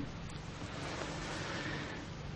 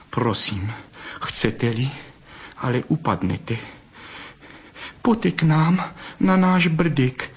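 coaxing; 5 semitones higher than usual. A narrator's reading. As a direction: gently coax him home. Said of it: "žadonila".

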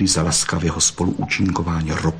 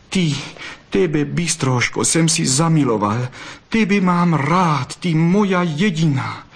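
ardent love declaration; 7 semitones higher than usual. Acted. Fox confessing love to the vixen, ardent. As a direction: declare love with growing ardour.

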